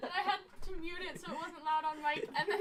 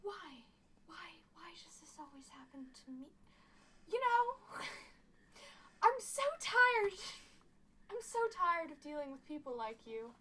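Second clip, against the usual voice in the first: weary whisper; 4 dB quieter than usual. Acted. Character weary complaint in role.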